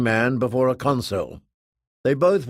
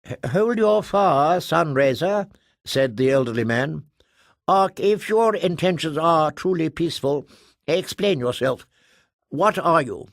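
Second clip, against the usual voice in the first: higher, urgent pleading; anxious elderly official; 5 semitones higher than usual. Acted. Elderly man asking the Ark to explain, anxious. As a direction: hold them back and beg for answers.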